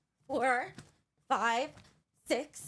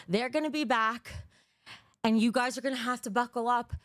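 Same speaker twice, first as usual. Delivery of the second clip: ordinary talk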